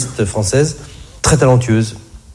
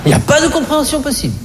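much higher, mocking falsetto; 12 semitones higher, faster than usual. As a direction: squeak it out in a high mock voice. Repeats line in mock voice.

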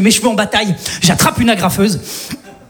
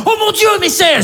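gasped reveal; 10 semitones higher than usual. Acted. Star reveal in trailer.

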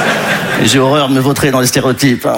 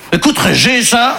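put-on Belgian Congo accent; 7 semitones higher than usual. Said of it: "Il vient du Congo belge".

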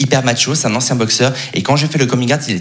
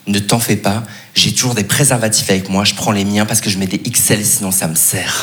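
quoted casual boast; 5 semitones lower than usual. Retold or imitated. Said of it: "ouvrez les guillemets".

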